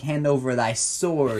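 slow, lightly voiced olden-days speaker; slow down into mock Shakespearean talk; olden-days speech. Wishing to speak in the olden days, mock-archaic. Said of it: "how to speak in the olden days".

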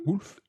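« Wolf » dit à l'anglaise, en une syllabe, sans le f final appuyé; « Wolf » prononcé comme en anglais, le w glissé en « ou ». Shown as a demonstration. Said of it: "on dit wolf en anglais". (« Wolf » à l'anglaise pour corriger)

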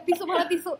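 half-laughing pretend sob; mock crying. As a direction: fake teary plea for tissues. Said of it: "jangan nangis ya".

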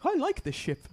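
a hint of Pegg's Scottish Scotty, sounding pleased; half-hearted Scottish impression that comes out sounding happy; Simon Pegg as Scotty. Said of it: "I can do Simon Pegg as Scotty".

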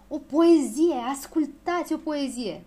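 high, loud proclamation; shouting at full force. A narrator's reading. Poet suddenly calls the crowd to hear a poem, shouting at full force. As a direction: announce it grandly to the whole crowd. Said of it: "strigă cu toată puterea".

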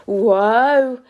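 loud startled cry. Acted. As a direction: cry out as if caught off guard. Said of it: "cried Bron".

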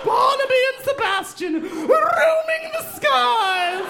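very high, slow, soaring shout; hammed-up grand call. Imagining the boys as balloon captains, very high mock shout. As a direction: proclaim it like a heroic legend.

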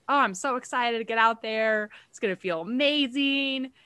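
high, bright eager voice; eager excitement. Retold or imitated. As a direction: sound pumped to go out. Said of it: "my first run postpartum was like".

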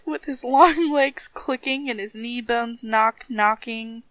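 lilting storybook reading; rhythmic story narration. A narrator's reading. Reading how the dead man danced, rhythmic story narration. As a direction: let the list of rattling parts roll along.

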